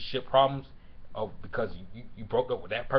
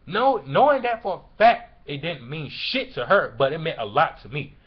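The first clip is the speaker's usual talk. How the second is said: real anger, voice raised on key words; angry; 3 semitones higher, 5 dB louder than usual. Real, not acted. Venting about someone they cared about, angry. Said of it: "I'm just angry because a person".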